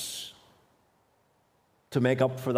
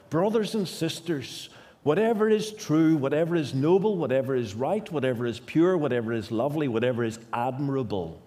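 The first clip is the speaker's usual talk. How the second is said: impassioned scripture reading; faster than usual. Acted. Preacher reading Philippians list.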